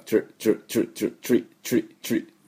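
チュリ as one quick "chree" syllable; short repeated "tree" bursts for チュリ, no vowel after the t; English "tri" sound. Shown as a demonstration. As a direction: say チュリ with t and r fused into "chr". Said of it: "この音ですね".

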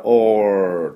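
long, slow demo of "オール" with the tongue pulled back; English "or" sound. Shown as a demonstration. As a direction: draw "オール" out as an r-coloured "or". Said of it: "オーアールですから".

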